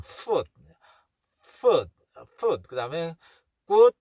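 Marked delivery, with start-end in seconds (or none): 0.0-2.7 "Food" in separate takes, each opening on a clear F; F sound. Shown as a demonstration. Teacher drilling the F sound, "Food" said as isolated words. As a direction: stress the F at the start of "Food". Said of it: "F 발음".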